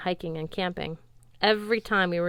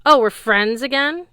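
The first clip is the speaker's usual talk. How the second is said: higher, much louder sarcastic challenge; indignant demand; 7 semitones higher, 11 dB louder than usual. Acted. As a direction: throw it back at him, loud and high. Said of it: "the sword demanded".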